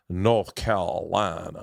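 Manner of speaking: lightly put-on North Carolina accent. Shown as a demonstration. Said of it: "Southern accent has, like, four different".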